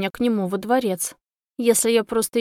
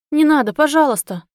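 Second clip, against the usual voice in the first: high, loud desperate plea; frightened begging; pleading; 4 semitones higher, 6 dB louder than usual. A narrator's reading. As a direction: beg for your life. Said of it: "взмолилась я".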